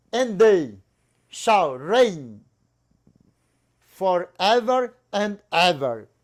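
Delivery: slow, measured, halting, with breaks between words. Reading a Bible verse in English, slow, with pauses between words. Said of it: "Eu vou falar pausadamente".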